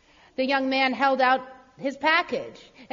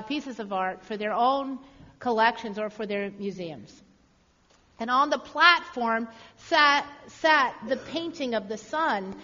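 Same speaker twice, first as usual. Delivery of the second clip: ordinary delivery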